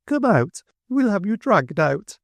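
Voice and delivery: high, imperious order; commanding call. A narrator's reading. Mrs Sparsit ordering the old woman out, high and commanding. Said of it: "said Missus Sparsit to someone inside".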